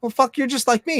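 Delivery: high-pitched awed realization, retold; awestruck. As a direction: act out being amazed at meeting your own kind. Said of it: "just fucking awestruck".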